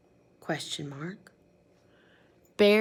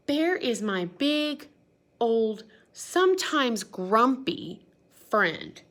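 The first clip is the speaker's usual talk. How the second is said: fond introduction; 2 semitones higher, 4 dB louder, slower than usual. Acted. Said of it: "Duck brings back Bear and says".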